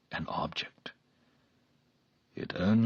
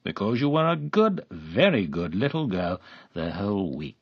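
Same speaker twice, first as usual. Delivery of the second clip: wheedling; 6 dB louder than usual. A narrator's reading. Man coaxing the girl.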